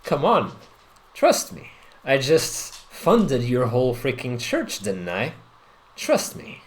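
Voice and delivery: soft, calm coaxing as the Duke; calm persuasion. Acted. Duke reassuring the uneasy party, calm persuasion. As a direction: coax calmly, "trust me" nearly whispered. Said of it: "looks at you very calmly and says".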